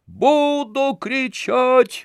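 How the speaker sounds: very high, drawn-out bawl; wailing yell. A narrator's reading. Tarantyev howls defiance at the women, very high yell. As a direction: howl it out defiantly. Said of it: "вопил Тарантьев".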